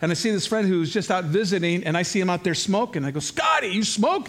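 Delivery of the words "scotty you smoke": high, drawn-out incredulous question; mock surprise. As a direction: call out a retold shocked question. Retold surprise at friend smoking.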